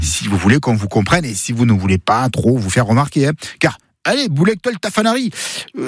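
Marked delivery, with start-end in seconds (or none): 3.6-5.3 higher, fast, with an exotic foreign lilt; exotic accent. Shown as a demonstration. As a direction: tafanari stressed on the final ri, sounding foreign to locals. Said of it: "ça sonnera un peu exotique pour ici".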